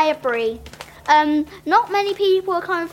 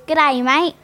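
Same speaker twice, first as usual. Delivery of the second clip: put-on Australian accent; 5 dB louder than usual.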